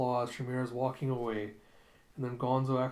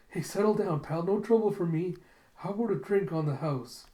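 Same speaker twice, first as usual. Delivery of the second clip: higher-pitched, lively appeasing patter; placating bartender; 6 semitones higher, 3 dB louder than usual. Retold or imitated. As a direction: coax a dangerous customer to settle. Acted bartender placating the monster.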